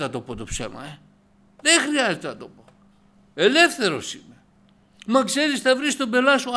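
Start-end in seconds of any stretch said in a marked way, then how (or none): 5.1-6.6 high, loud voice of a doubter; mock doubting voice. Imagined doubter warning him about trouble, loud and high. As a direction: throw the worried objection at yourself.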